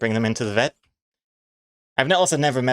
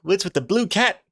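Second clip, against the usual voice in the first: confused viewers; 8 semitones higher than usual. Retold or imitated. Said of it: "everyone's gonna be like".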